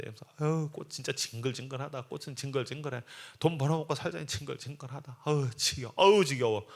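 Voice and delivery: weary mock grumble; irritated grumbling. Florist fed up at work, irritated grumbling. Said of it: "짜증이 그냥 잔뜩 나세요".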